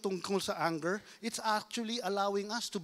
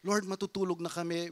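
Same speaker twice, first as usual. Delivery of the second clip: sample prayer. Shown as a demonstration. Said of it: "Ang prayer pag nag-aaway".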